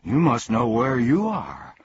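the man echoes Milo, equally annoyed. Acted. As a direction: snap it back, irritated. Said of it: "with equal annoyance".

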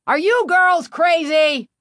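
high-pitched outraged yell; angry shout. A narrator's reading. Operator yelling at two girls who nearly got run over, angry shout. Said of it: "the angry operator shouted".

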